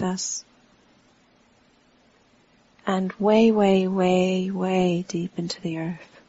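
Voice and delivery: unhurried meditation guidance with long pauses; guided meditation. Real, not acted. Teacher guiding a standing group to relax into the earth, unhurried meditation voice. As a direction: talk them gently through the body, pausing between phrases.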